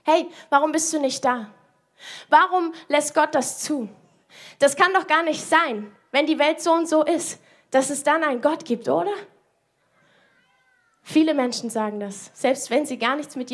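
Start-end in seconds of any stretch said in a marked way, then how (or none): 0.0-9.1 reproachful. Retold or imitated. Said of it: "dass Gott bis heute noch Vorwürfe hört".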